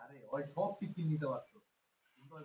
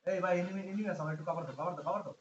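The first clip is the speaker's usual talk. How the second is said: cover me shout; 7 dB louder than usual. Real, not acted. Calling for cover in fight.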